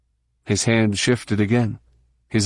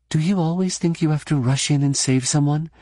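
higher-pitched, mildly wry challenge; attempted wry superiority; 5 semitones higher than usual. A narrator's reading. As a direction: try to sound superior and not quite manage it. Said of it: "stab at sounding wry and superior. But her voice shook".

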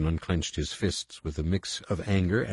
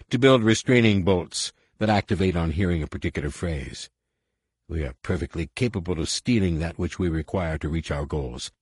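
gloating alien general; 2 semitones lower than usual. Acted. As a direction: savour every threat.

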